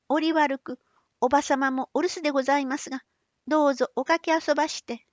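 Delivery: put-on high, polite young woman. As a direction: speak up brightly as a gentle young girl. Young woman Otsu speaks politely.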